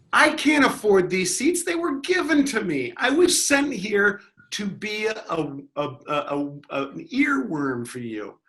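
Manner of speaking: high, grandly mock-solemn; mock prophet. Heckler posing as a sent messenger, mock solemn. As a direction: preach like a divine messenger. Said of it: "sent to test you".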